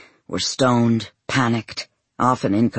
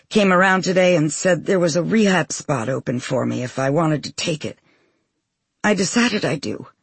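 put-on a higher, hesitant young woman; daughter's voice; 6 semitones higher than usual. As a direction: gently reassure her mother. Grown daughter on the phone.

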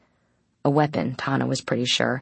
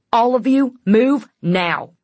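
raised, loud urgent command; ordering; 9 semitones higher, 7 dB louder, slower than usual. A narrator's reading. The guard orders everyone to move, loud and urgent. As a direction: hammer out the order, voice pitched up. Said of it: "the guard ordered".

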